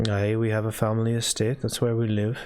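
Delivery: subdued non-player character, lightly acted; lightly voiced estate owner. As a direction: answer a worried visitor in light character.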